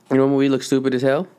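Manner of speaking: fast, breathy whispered retake; whispering. Shown as a demonstration. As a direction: whisper it quickly, almost to yourself. Repeats line in whisper after burp.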